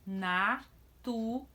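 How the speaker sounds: Natureza said slowly, na-tu-re-za; syllables drawn out. Shown as a demonstration. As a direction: sound out Natureza for the class. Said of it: "Vejam os exemplos aqui".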